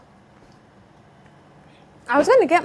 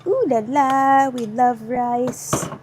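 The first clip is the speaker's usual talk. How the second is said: slow ooh la la; much slower than usual. Acted. Admiring rice slowly.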